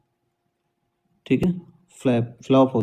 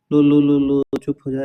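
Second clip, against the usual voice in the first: lightly acted baby-hushing; rhythmic little coo, easing off at the end; a hint of a parent quieting a child; soothing a crying baby; 3 dB louder than usual. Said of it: "ऐसे बोलते हैं ना?".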